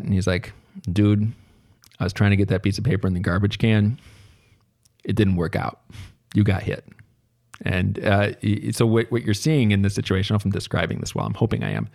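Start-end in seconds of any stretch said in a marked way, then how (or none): 0.9-6.8 unbothered, matter-of-fact retort; retold blasé. Loner kid answering the angry classmate he hit, mildly blasé. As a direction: shrug it off in an everyday voice. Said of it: "one kid being extremely blasé".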